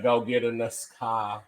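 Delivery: Chicago accent. Shown as a demonstration. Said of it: "That's how we say it in Chicago".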